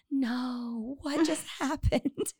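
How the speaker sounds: high, slow, soft disbelief breaking into laughter; mock dismay. Voicing commenters on a bad haircut, mock dismay. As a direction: draw it out in mock horror, amused. Acts out shocked online comments.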